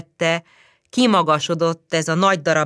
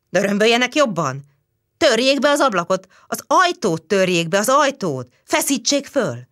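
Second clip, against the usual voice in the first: higher, louder crowd voices; urgent calling; 4 semitones higher, 3 dB louder than usual. Acted. Crowd at the door urging a break-in, loud. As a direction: press them to break in.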